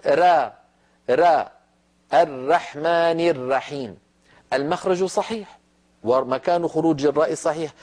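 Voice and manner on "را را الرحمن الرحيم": را and الرحمن with a light, unrolled ra, slow; wrong ra. Shown as a demonstration. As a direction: drag out a thin, thin ra. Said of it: "لو قال إنسان". (نطق خاطئ للراء)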